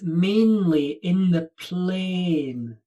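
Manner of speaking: "mainly in the plain" said slowly, each vowel drawn out; slow careful model of "mainly in the plain"; model pronunciation. Shown as a demonstration. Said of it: "Don't you hear the difference?".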